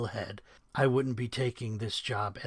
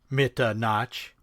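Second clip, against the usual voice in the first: Mitta stretched slow and louder in a mock Charlie Chan accent; 6 dB louder, slower than usual. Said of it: "accentuated the Mitta with a Charlie Chan accent".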